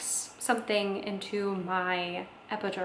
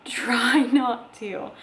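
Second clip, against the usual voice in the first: slow, louder, breaking into a laugh; laughing coax; 3 semitones higher, 7 dB louder, much slower than usual. Retold or imitated. Sweet nurse tells the mother not to push, laughing. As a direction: coax her with a chuckle.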